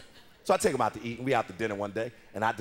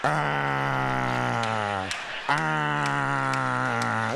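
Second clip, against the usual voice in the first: put-on dumb little boy. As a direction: play a clueless boy who can only grunt. Mimics dumb little boy answering.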